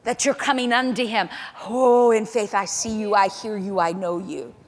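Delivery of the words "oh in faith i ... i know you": loud worshipful declaration, easing off; exultant cry of faith. Acted. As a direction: cry it out to God in rapt faith. Acted cry of faith to God.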